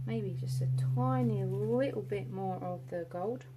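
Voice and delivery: slightly put-on English accent. Real, not acted. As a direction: slip playfully into an English accent. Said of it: "speaking with, like, a, an English accent".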